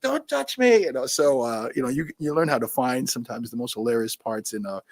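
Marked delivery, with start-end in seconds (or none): 0.0-0.8 mock disgust. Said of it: "and they're like".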